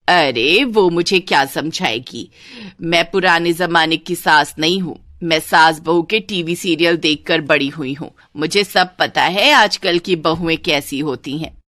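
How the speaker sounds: lightly voiced know-it-all saas; haughty mother-in-law. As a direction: boast that nobody can teach her. (हल्की अकड़ वाली सास)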